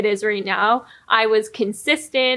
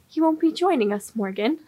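eerie; 5 semitones higher than usual. Retold or imitated. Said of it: "It was just eerie".

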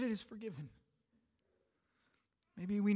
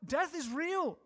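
tearing up; 8 semitones higher, 4 dB louder, slower than usual. Real, not acted. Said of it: "I was tearing up".

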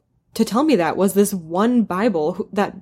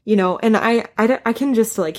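choked up; 2 semitones higher than usual. Real, not acted. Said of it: "sorry, I'm crying".

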